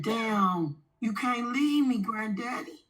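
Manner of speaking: grieving plea, voice rising; pleading with granddaddy. Retold or imitated. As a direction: beg him not to go. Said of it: "I said".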